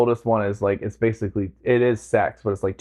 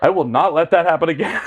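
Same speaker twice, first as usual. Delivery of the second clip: higher contrite pledge breaking into laughter; laughing mock promise; 4 semitones higher, 3 dB louder than usual. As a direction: promise it while cracking up.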